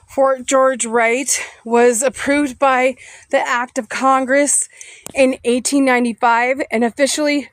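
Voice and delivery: reading while out of breath after walking; breathless, catching air between phrases. Real, not acted. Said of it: "sorry, I'm out of breath".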